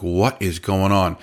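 slow, spaced-out bewilderment; retold disbelief, drawing out each word; bewildered demand. Runs into a screaming fight.

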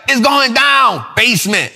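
shouted line then dropped tag word; mock rapper punchline, shouted; playful imitation of a rapper's early style; old rap bars. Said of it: "when she used to talk like that".

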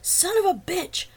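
loud, high-pitched furious yell; repeated shout. A narrator's reading. Man shoving her aside, yelling in fury. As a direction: shout the curse slowly and hard. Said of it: "Wagner repeated".

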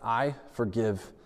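slow sincere. Shown as a demonstration. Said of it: "we're actually going to speak forgiveness".

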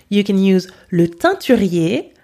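"teinturier" said the French way; French vowels on "teinturier"; French pronunciation. Shown as a demonstration. Teacher gives learners the French word. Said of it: "repeat my pronunciation".

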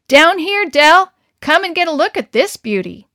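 loud call across the corral; Harry hollering from the corral, excited. Acted. Harry calls Del down to the corral, loud call.

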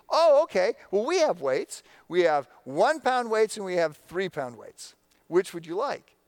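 perky instructor. Retold or imitated. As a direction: imitate a too-cheerful fitness instructor.

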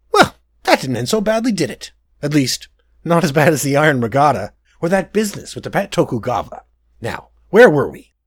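a spoiled prince defending himself; petulant prince. Acted. Prince voiced.

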